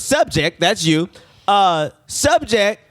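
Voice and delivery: slow, deliberate report-reading voice; lightly voiced official reading out a report. Nurse reading police report to patient, measured and official.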